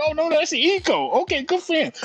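giggly realization; laughing high voice. Retold or imitated. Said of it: "I'm like".

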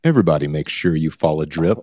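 low, smooth romantic murmur; pillow talk voice. Pretend. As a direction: purr it like sweet nothings. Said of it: "say Drip for me in your little romantic Pillow Talk voice".

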